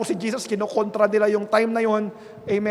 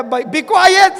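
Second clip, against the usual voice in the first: higher, much louder yelled hush; crowd shout; 7 semitones higher, 10 dB louder than usual. Retold or imitated. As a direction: yell like a crowd silencing him. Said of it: "Sabi niya".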